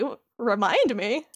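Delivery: slow, questioning rise, mildly puzzled; confused. Retold or imitated. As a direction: imitate a mildly baffled echo. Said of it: "Sora's very confused by the".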